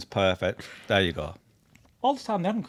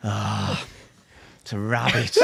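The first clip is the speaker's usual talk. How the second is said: nonchalant; 3 semitones lower, slower than usual. Retold or imitated. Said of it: "So nonchalantly".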